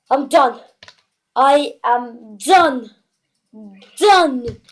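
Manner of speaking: loud, emphatic, slow final word; overwhelmed declaration. Real, not acted. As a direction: declare it, totally finished. Overwhelmed by the pull.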